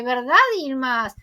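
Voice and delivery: imitating a falsely sweet check-in; fake smile. Melek seeks confirmation from Yilmaz, imitated with a fake smile. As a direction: say it through a put-on smile. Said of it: "sonriendo falsamente".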